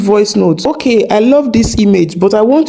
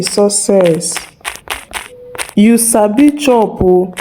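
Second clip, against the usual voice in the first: dictating. Real, not acted. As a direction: dictate it phrase by phrase, pausing between. Dictates a Pidgin prompt.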